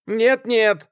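high, loud shout of refusal. A narrator's reading. Student objecting from the table corner, shouting. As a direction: call out across the table. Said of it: "кричал с угла стола холёный студент".

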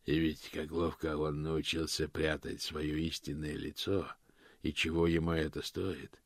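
soft, low remembered father; a quiet fatherly voice in memory; father's voice. Acted. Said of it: "отцовский голос сказал".

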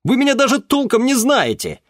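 very high, loud protesting cry; indignant protest. Acted. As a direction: protest his innocence. Boy protests to father.

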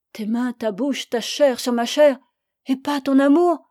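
amertume qui monte vers la révolte; amante blessée. Acted. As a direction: reproches d'amante, de plus en plus appuyés. (amante meurtrie et révoltée)

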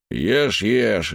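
talking through a mouthful; chewing between words; mouth full. Acted. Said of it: "говорит Амазарак с полным ртом".

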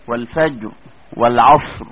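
"والفجر" and "والعصر" each ending on a thick ra; heavy ra. Shown as a demonstration. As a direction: stop on the ra heavily. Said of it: "زي كلمة والعصر".

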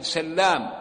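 سلام said sallām, double l; سلام as "sal-LAAM"; doubled lam. Shown as a demonstration. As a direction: hold the l in سلام. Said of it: "بالتشديد، هكذا".

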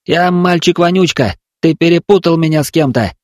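put-on boy correcting the voice firmly. A narrator's reading. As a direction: insist on who you are. Vonyuchka's voice.

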